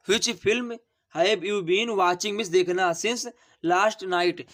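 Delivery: very slow, word by word; dictating slowly. Shown as a demonstration. Teacher dictates the answer to students, very slowly. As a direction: spell it out for the class. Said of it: "teacher dictating the English answer".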